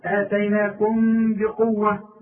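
آتيناكم بقوة slow, long nasal hum on the m; sustained ghunna between آتيناكم and بقوة; lips left ajar. Shown as a demonstration. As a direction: hold the m of آتيناكم as a hum, lips not shut. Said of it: "ما تقفلوش".

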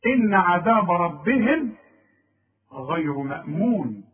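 slow recited verse; Quran recitation. Shown as a demonstration. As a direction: recite it slowly and clearly. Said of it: "recites verse".

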